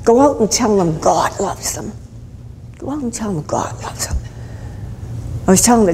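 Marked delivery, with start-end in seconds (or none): 0.0-1.9 full-voiced proclamation; proclaiming. Preacher passing a message to the congregation, proclaiming. 2.8-4.2 soft, hushed echo; hushed repeat. Acted. Preacher repeating the message to the congregation, hushed.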